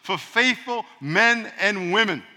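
measured scripture reading; slow reading. Shown as a demonstration. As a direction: read it out slowly and deliberately. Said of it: "it says".

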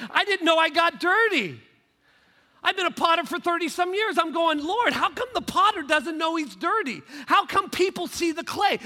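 loud, high-energy sermon delivery with punched key words; impassioned preaching. Real, not acted. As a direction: preach it with rising fervour. Preaching at full force.

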